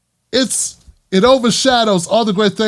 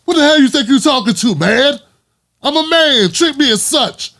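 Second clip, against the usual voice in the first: protesting black man; 4 semitones higher than usual. Retold or imitated. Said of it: "and we say".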